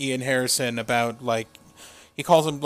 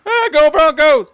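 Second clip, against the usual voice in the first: high, loud hammed-up cowboy cheer; mock cowboy cheer; 11 semitones higher, 9 dB louder than usual. Joining the mockery of a cowboy wrestler, loud cheer. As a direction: yell it like a fake cowboy fan.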